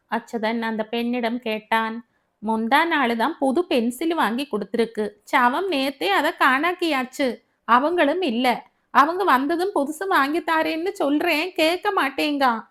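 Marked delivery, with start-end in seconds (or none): 2.5-12.7 exasperated mother. Acted. Mother complains about her son.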